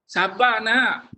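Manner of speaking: slow, drawn-out plea for patience; patient coaxing. Shown as a demonstration. Teacher showing a parent asking a child for patience, coaxing. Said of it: "kita gunakan perkataan sabar".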